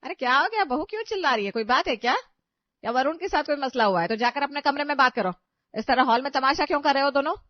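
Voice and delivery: loud, sharp scolding from the hall; scolding mother-in-law. Acted. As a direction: tell them off for making a scene. Mother-in-law scolds quarrelling couple. (ऊँची आवाज़ में डाँटती सास)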